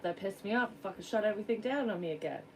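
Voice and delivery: real irritation, fast angry rant; venting at the device that crashed, fired up and fast. Real, not acted. Fuming at hackers shutting her phone down, quick and angry. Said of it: "I'm sorry I'm getting fired up".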